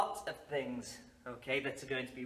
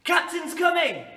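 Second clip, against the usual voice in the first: loud high call; 10 semitones higher, 8 dB louder than usual. Acted. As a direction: announce it like a lookout. Game call to class.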